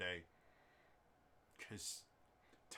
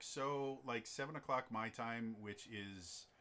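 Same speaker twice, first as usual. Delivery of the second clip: hesitant, then higher, louder and drawn-out asking; puzzled, stretched-out question; unsure scheduling question; 4 semitones higher, 4 dB louder, slower than usual. Retold or imitated. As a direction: guess wildly at the time, rising into a question. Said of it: "I'll be like".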